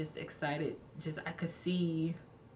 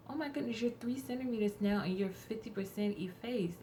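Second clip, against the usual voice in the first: high amazed doctor voice; startled doctor announcing progress; surprised doctor; 6 semitones higher than usual. Retold or imitated.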